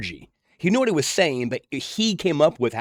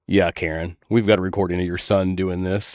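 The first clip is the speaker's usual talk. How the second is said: billing clerk; 6 semitones lower than usual. Retold or imitated. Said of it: "and they're like".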